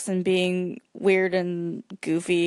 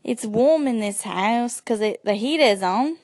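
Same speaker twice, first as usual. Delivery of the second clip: put-on Australian accent. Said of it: "you do an Australian".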